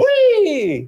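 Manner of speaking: high, loud joyful squeal; gleeful whee. Acted. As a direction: squeal like on a ride. Balloon escape joke.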